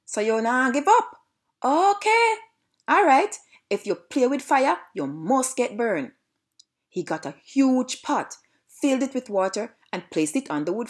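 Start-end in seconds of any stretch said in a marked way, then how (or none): 0.0-6.1 high, loud taunting shout. Acted. Little piggy spotting the dog climbing the roof, shouted. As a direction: shout up high, easing toward the end. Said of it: "noticed this and shouted".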